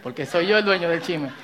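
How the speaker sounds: low, hushed gossip; tittering gossip whisper. Retold or imitated. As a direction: spill the secret softly. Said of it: "Tono de chisme".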